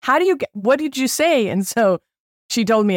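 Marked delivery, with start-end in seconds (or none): 0.0-1.5 high, sudden mock astonishment; retold disbelief. Hearing about the special guide, high astonished. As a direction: catch the friend's news in shock. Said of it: "And I was like".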